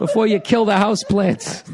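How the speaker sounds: blunt mock insult to a partner, laughing; mock rude. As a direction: bark a playful insult. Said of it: "how can he tell it".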